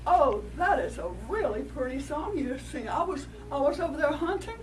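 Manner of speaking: butter up the dove like a sly coyote; lightly voiced coyote coaxing; coyote's flattery. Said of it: "the coyote said".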